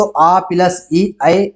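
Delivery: आ and ई glided together into one clear ए; sound merging demo. Shown as a demonstration. Teacher sounds out आ plus ई becoming ए. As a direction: say आ plus ई, then land the merged ए. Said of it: "इस प्रकार से आवाज निकलेगी".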